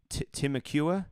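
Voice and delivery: Temecula tried as tim-uh-KYOO-uh, rising; tentative pronunciation. Shown as a demonstration. Asking Orlando locals, Temecula as a rising tim-uh-KYOO-uh. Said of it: "how do you say that in Orlando".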